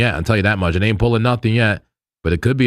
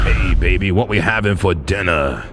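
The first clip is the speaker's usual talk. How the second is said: put-on sweet-talking girlfriend. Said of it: "I talk like this all the time to my girlfriend".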